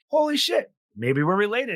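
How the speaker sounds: high excited mock surprise; excited squeal. Teller gushing to Amy about being related, high and excited. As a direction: gush it up high and loud. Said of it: "I'm like".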